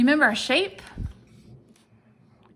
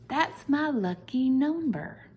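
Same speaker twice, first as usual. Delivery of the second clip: delighted discovery; 5 semitones higher, slower than usual. Real, not acted. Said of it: "So I said".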